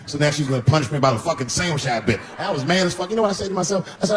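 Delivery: ordinary talk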